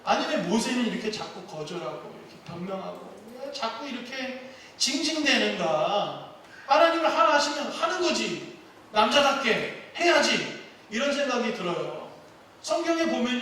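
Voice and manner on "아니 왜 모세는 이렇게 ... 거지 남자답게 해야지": mildly irritated. Real, not acted. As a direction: grumble with mild impatience, then push harder. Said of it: "막 짜증이 나요". (살짝 짜증 섞인 말투)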